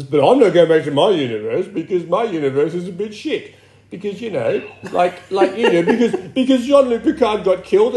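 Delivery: impression of a TV starship officer in a fast rant; rambling in-character complaint; Riker. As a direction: act out an aggrieved character, rattling off excuses. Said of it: "That was a very good Riker".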